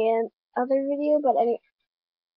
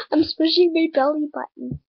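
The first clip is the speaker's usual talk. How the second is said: laughing through it; 2 semitones higher than usual. Real, not acted. Vlogger embarrassed at herself, giggling. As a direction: repeat "I'm smushing" dissolving into giggles.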